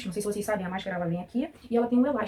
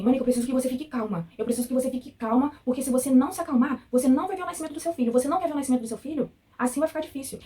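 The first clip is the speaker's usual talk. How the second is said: imitating a harsh nurse, higher and a bit louder; 5 semitones higher, 4 dB louder than usual. Patient imitating the nurse threatening she'll miss the birth, sharp and raised. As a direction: threaten her with a raised, pressing voice. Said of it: "ela foi e falou assim".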